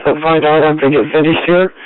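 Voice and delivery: usual speaking voice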